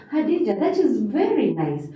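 gently approving parent, lightly acted; a touch of loving praise. Shown as a demonstration. Parent comfortable with what the child has done, loving. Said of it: "a very loving tone".

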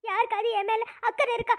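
crying complaint. Acted. Girl crying as her friend walks past, plaintive hammed-up wail. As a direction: whine tearfully for some attention. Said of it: "இங்க ஒருத்தி அழுதுகிட்டு இருக்கிற".

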